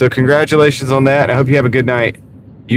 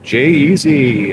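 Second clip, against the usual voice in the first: slow drawn-out host announcement; game show voice; much slower than usual. Shown as a demonstration. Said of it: "I got the game show voice going now".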